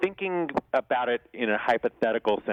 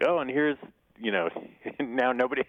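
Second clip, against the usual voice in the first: announcer voice. Retold or imitated. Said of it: "part of the undercard of that announcement".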